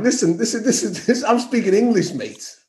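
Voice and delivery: retold affronted insistence, lightly hammed up; mock mortified. British traveller answering Americans about his accent, mock mortified. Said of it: "I was mortified".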